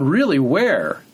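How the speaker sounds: imitated pointed surprise; mock-sceptical retort. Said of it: "I went".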